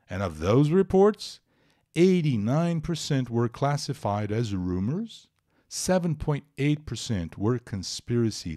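slow, deliberate English read-aloud. Acted. Teacher reading paragraph four to students, slow clear read-aloud. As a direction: read the report clearly, phrase by phrase.

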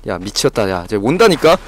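ordinary talk, nothing marked

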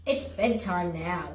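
sleepy yawning voice. Acted. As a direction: yawn the words out. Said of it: "William yawned".

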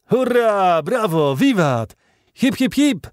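loud, high jubilant shouts; exultant hurrahs; cheering. A narrator's reading. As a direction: cheer in triumph, voice thrown high. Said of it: "wołał Michał Ardan".

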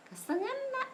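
high squealing sigh of resignation. Real, not acted. Squealed reaction after guest leaves.

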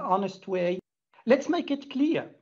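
normal talking voice

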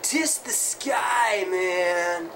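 slow, spaced-out stoner drawl; stoner guitarist voice. Shown as a demonstration. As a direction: drag it out like a dazed rocker dude. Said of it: "you gotta talk like this".

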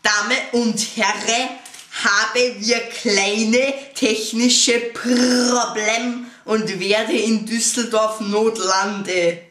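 slow, loud pilot in broken German; broken German pilot announcement. Retold or imitated. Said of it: "in gebrochenem Deutsch".

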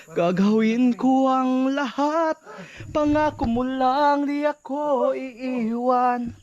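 slow, pleading telenovela lover, half in jest; mock soap-opera vow. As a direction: ham up a teleserye promise, stretching every word. Mock romantic vow to viewers.

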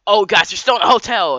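high, loud startled yell from the dude; imitating a loud outburst; mock shout. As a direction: call it out high and loud like a startled hotel guest. Dude bursts out at the kids.

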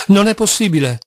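shocked outburst; astonished exclamation. Acted. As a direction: blurt it out, stunned. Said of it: "esclamò".

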